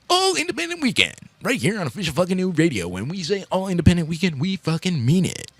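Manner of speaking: booming radio announcer; big radio voice. Acted. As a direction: sell it like a DJ hyping the weekend. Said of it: "Like my big radio voice".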